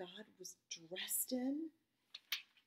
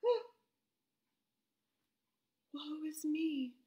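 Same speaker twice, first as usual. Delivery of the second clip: high loud "Oh" sliding into woe; Isaiah's dismay; 5 semitones higher, 5 dB louder than usual. Retold or imitated. Isaiah seeing God's throne, high dismayed cry. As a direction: gasp out his dismay. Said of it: "His first thought was".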